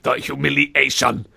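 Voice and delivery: "humiliation" spaced out syllable by syllable; over-articulate every syllable of "humiliation"; mock mispronunciation. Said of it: "This is how you pronounce words".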